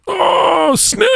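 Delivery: very high mock shriek; imitated child's scream. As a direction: scream it like a little girl spotting a snake. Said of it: "She started screaming, like".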